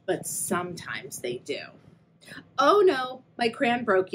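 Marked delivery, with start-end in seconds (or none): 2.6-4.1 yelled. Acted. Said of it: "yelled Pip".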